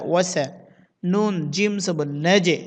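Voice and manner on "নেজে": "নেজে" with a released, rebounding j; qalqalah. Shown as a demonstration. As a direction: bounce the j of নেজে with a short echo. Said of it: "জিমে কলকল করতে হবে". (নেজে-র জিমে কলকলা)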